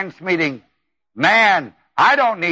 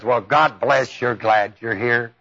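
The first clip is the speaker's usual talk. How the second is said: tender greeting; 7 semitones lower than usual. Retold or imitated. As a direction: greet them kindly, a little hushed. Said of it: "the tone in that voice".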